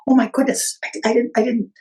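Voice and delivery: flustered startled exclamation; a retold jolt of surprise; startled woman stammering at the little man. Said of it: "she woke up startled".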